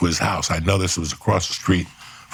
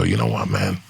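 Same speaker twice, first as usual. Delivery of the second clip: much lower, cold tough-guy voice; menacing tough guy; 11 semitones lower than usual. Retold or imitated. Facing the armed guy, a low cold tough-guy line. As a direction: drop the voice low like a threat. Retold decision to walk away.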